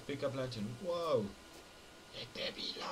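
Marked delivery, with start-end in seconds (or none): 2.2-2.9 whispered grand proclamation; mock solemn whisper. Gamer lifting the lantern, a mock solemn whisper. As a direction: breathe it like a prophecy.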